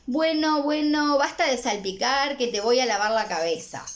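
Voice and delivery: put-on mother stopping her child's splashing, lightly stern; firm mother. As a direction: tell the splashing kid to stop. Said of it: "le dice la mamá".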